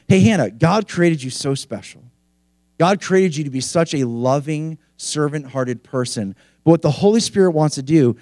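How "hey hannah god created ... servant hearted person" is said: gentle, softer encouragement; encouraging. Retold or imitated. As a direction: speak kindly to build her up. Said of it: "It was more like".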